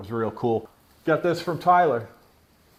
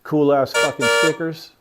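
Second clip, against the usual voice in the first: louder excited praise; hyped; 5 dB louder than usual. Real, not acted. Fan admiring his new stickers, louder and excited. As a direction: show off the stickers thrilled.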